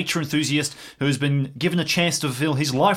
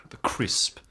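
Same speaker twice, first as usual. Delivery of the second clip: slow husky ad-read whisper; deodorant ad whisper; 4 semitones lower, 5 dB quieter, much slower than usual. Pretend. Brother selling deodorant in a whispered ad. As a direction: breathe it like a cologne commercial.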